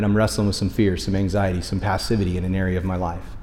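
low, quiet inner admission; subdued confession. Acted. Churchgoer admitting fear and anxiety to himself, subdued. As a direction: sink into a soft, private confession. Voicing hidden struggles after "I'm good.

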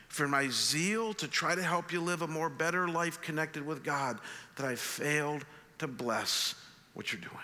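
hushed, heartfelt apology to his son; tender. Retold or imitated. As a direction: tell your grown kid you love them, gently. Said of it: "this one tender moment".

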